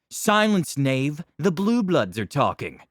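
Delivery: haughty knight scolding squire; arrogant noble. Acted. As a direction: wave off a lowly servant.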